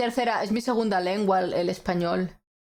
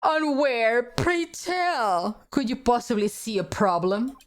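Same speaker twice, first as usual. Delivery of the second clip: higher, theatrical challenge; challenging courtroom lawyer; 4 semitones higher than usual. Acted. Demanding where the problem lies, theatrical and challenging. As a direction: pose it like a pompous courtroom challenge.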